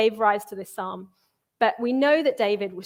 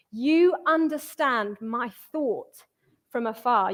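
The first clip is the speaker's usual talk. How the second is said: slow psalm reading; slower than usual. Acted. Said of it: "angry and emotional and spiraling".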